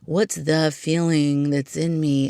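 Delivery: slow, drawn-out mock drama; mock dramatic. Podcaster mocking an overthought title, slow and dramatic. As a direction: ponder it slowly, overdoing the weight. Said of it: "sounds kind of, like, dramatic".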